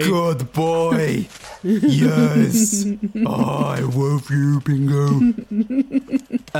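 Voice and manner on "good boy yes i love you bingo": doting pet talk. Acted. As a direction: gush slowly over a beloved dog. Player fussing over his pet.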